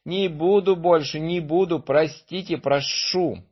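high pleading little voice; begging sparrow. Acted. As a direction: beg to be let go.

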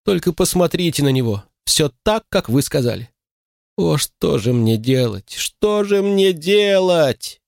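high, very slow wailing woman; despairing moan. A narrator's reading. Mother to the doctor, wailing slowly in despair. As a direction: drag out что же мне делать in despair. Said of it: "простонала женщина".

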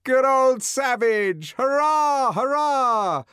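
high, loud mocking cheer; jeering cheer. A narrator's reading. Sightseers cheering the savage, loud mocking cheer. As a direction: cheer him on like a rowdy crowd. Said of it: "a burst of laughter and hand-clapping".

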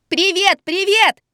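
put-on high, slow little boy's cry; child shouting. A narrator's reading. The boy shouts hello to the saleswomen. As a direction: shout it like an excited six-year-old. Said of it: "кричал ребёнок".

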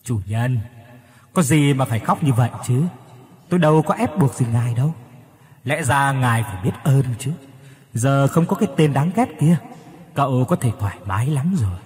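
sly demon voice, lightly voiced; the demon taunts its master who is crying; mocking demon. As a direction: taunt him like a smug spirit. Voice of the demon shadow.

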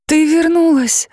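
bursting with relief; mother greeting the returned girl, high and joyful; overjoyed cry. Acted. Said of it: "обрадовалась мама Нейзи".

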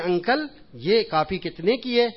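put-on little girl asking. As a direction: ask sweetly like a small girl. Girl asks shopkeeper the price. (بچی کی معصوم آواز میں، آہستہ)

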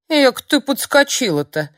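put-on high, loud cheeky old hag; mock her boldly; old crone unafraid of the witch. A narrator's reading. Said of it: "не испугалась Нурлиса".

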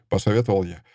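ordinary delivery

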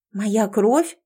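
mildly surprised echo question. Acted. Heroine hears that her blood can speak, mildly surprised. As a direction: ask back with a touch of surprise. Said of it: "я удивилась".

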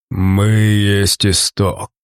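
very slow breathed-out last words; dying monster exhale. Acted. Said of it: "выдохнул изменённый".

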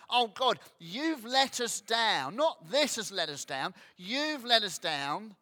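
mock petulant prayer of a grumbling believer; grumbling at God. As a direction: whine at God like a sulking child. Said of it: "We can tend to go".

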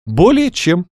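high, eager exclamation; exclaiming. A narrator's reading. Каролина assures the doctor she has enough paper, exclaiming. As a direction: exclaim it in a lifted lady's voice. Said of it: "воскликнула Каролина".

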